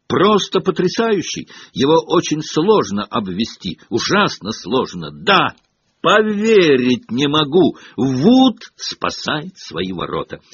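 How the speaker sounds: play-by-play bursting into praise; gushing young commentator; excited match commentary. A narrator's reading. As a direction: marvel at the keeper as a fan.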